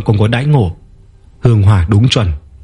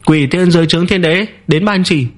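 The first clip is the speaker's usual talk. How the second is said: clear, word by word; 8 semitones higher than usual. Acted. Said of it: "nói rõ ràng từng chữ".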